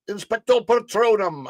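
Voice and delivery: loud, high-pitched pretend spell casting; mock spell incantation. Streamer playfully casting a Harry Potter spell, loud mock incantation. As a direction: call out a wizard's spell in play.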